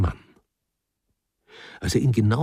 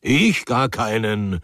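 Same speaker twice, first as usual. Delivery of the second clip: husband flustered by his wife's question; 4 dB louder, slower than usual. Acted. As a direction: deny it too quickly. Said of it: "antwortete Pawel Iwanitsch verwirrt".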